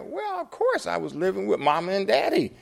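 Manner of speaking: very high put-on woman's voice; high-pitched, insistent imitation of her; woman's emphatic reply. Woman voiced answering matter-of-course.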